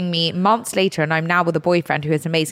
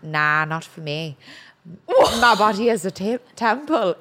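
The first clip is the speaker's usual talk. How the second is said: put-on thick Irish accent. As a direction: imitate a date's thick Irish brogue. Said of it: "in his thickest Irish accent".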